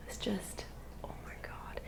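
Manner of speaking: barely audible, voiceless aside; upset, nearly soundless murmur; overcome whisper. Real, not acted. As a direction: breathe it out, overcome by the memory. Overcome while retelling upsetting story.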